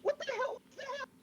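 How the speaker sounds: high, loud pained outburst; stung, shrieking demand; hurt and angry. Acted. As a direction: yell it out clutching the eye. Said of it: "And she's like".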